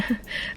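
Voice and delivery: small, quiet imitated nervous laugh. Imitating Noah's reaction to being teased, nervous laugh. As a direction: briefly mimic an uneasy little laugh. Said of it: "it was more of a nervous laugh".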